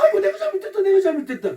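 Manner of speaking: very high, wailing mock apology; hammed-up motherly pleading, falling from high pitch; appeasing mother. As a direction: exaggerate a mother placating her child. Mother again appeasing crying child.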